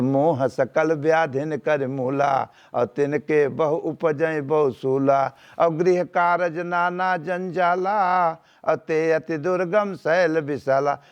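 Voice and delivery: slow, drawn-out verse recital; verse recitation. Acted. Preacher quoting scripture to his listeners, slow verse recitation. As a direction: recite the couplets with stretched line endings.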